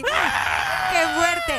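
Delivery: excited exclaim. Real, not acted. Laughing exclamation.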